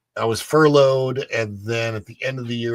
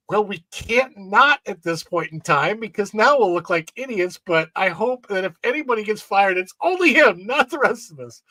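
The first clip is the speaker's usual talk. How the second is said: higher-pitched, exasperated group reply; mock embarrassed reaction; 7 semitones higher than usual. Lifeguards worrying they'll look like idiots, mock dismay. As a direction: act out mild alarm at a coworker's blunder. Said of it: "And we're like".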